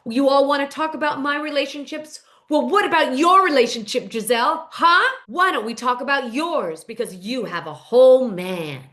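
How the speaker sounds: emphatic, challenging comeback; retold indignant challenge; confrontational retort. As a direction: act out a pointed clapback. Recapping a cast argument, quoting Stacy.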